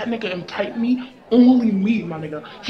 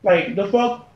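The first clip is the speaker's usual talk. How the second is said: louder, challenging, picking a fight; confrontational; 4 dB louder than usual. Acted. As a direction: call her out, ready to fight. Girls confront newcomer.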